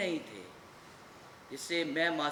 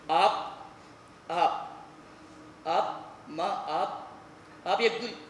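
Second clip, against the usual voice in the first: halting, broken-off attempts; hesitant, struggling to get it out; faltering tongue; 4 semitones lower, much slower than usual. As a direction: stumble and restart between pauses. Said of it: "मेरी ज़बान लड़खड़ाने लगी थी".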